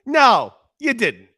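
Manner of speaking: high, slow, drawn-out disbelief; mock-shocked you didn't; incredulous disbelief. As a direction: stretch it out like you can't believe it. Incredulous reply to teammate.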